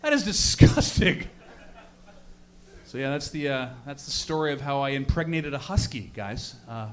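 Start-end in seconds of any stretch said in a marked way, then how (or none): 0.0-1.3 higher, revolted verdict; acted revulsion; hammed-up disgust. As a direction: spit it out, appalled.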